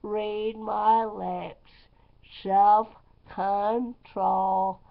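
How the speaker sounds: a hint of Bush, drawn-out and firm; George Bush impression. Dana Carvey's Bush told to the internet, lightly voiced. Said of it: "my imitation of Dan Carvey imitating George Bush".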